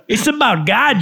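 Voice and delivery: high, loud mock-earnest voice; put-on spiritual fan. Joking about people who find Star Wars spiritual, high put-on voice. Acted quote continues after laugh.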